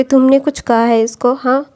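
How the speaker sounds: mock-accusing a man on her son's behalf; scolding mother. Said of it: "लैन कुरन के ऊपर चिल्ला रही थी".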